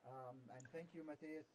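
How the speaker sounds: very quiet, faint voice; barely audible. Real, not acted. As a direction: speak faintly, barely heard. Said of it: "your voice is very low".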